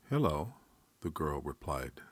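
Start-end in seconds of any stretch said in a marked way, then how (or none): 0.1-0.5 put-on dreamy child's hello; pitched-up, dreamy greeting. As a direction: say it lightly, lost in play.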